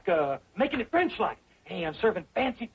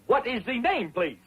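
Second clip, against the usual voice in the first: put-on French accent of a host; fake French accent. Host taking a guest's name, mock French accent. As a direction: play a maître d' with bad French accent. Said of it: "Now remember your French accent".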